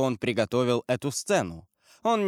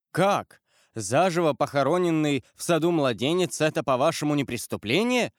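exclaiming; 3 semitones higher than usual. Acted. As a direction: cry it out in disbelief. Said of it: "воскликнул Монте-Кристо". (громкое возмущённое восклицание)

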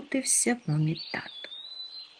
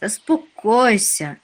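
slow, raised-pitch reassurance; consoling; 4 semitones higher, 5 dB louder than usual. A narrator's reading. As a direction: soothe a friend, drawing the word out. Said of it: "потішав його Нюхмумрик". (заспокійливо, протяжно)

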